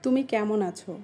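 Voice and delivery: standard Bengali pronunciation. Shown as a demonstration. Asking someone how they are, standard Bengali. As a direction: ask it in formal standard Bengali. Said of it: "এটাকে আমরা বলি".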